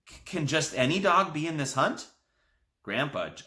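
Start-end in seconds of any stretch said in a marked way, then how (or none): 0.1-2.1 croaked. A narrator's reading. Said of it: "I croaked".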